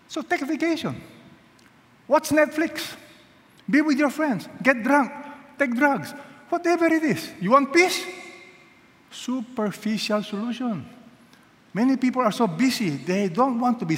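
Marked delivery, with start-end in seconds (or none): 0.1-8.0 high, breezy mock of the world's advice; sarcastic high carefree voice; mocking worldly advice. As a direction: lightly voice the careless advice of the world.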